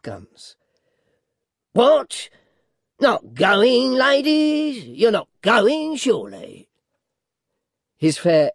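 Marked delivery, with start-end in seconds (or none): 1.7-6.7 high, loud, swooping cries; exaggerated, drawn-out surprise; dwarf in mock astonishment. A narrator's reading. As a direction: feign shock that they would leave, then drop on the last word. Voices dwarf Quilp in reading.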